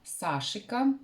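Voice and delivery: "Сашика" stressed on the first syllable, SA-shi-ka; pronunciation variant. Shown as a demonstration. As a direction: say "Сашика" with a long first A and short endings. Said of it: "что я нашла".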